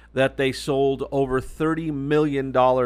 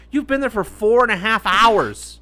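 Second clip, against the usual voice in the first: higher-pitched exasperated retort; mock exasperation; 5 semitones higher than usual. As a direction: retell it in incredulous protest. Retold exasperated reply to friend.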